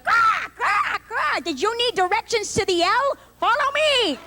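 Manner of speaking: high friendly caws and chirpy offer; laid-back pigeon. Retold or imitated. Chicago pigeon offering directions, friendly high caws. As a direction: squawk helpfully like a chill bird. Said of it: "They're like".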